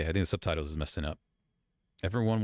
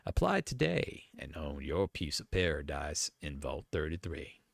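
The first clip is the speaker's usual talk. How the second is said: measured announcer's pitch, trailing softer; advert read; 3 semitones lower, 4 dB quieter than usual. Acted. Vault-Tec pitching Vault thirty-three to America, advert read.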